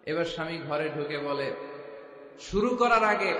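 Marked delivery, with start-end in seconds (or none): 2.4-3.3 tag. Acted. Husband voiced in joke story.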